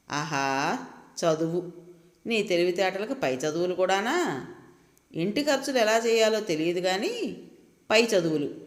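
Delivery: lightly voiced sarcastic husband; mocking. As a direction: sneer at her wish to study, mildly. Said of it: "అతని ప్రతి మాటలోనూ ఎగతాళి ధ్వనిస్తోంది". (వెక్కిరింపుగా, కాస్త ఎగతాళి స్వరం)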